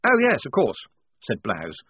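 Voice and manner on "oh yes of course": higher, louder, hastily apologetic; officer embarrassed at his own manners; caught out. A narrator's reading. Lieutenant asked for a drink by his prisoner, caught out. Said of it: "as if caught out in a display of bad manners".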